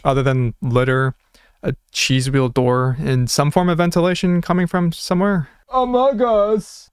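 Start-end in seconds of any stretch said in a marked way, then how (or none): 5.7-6.9 high, slow meme squeal; high drawn-out Among Us. Pretend. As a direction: stretch it out high and silly. Meme reference in church.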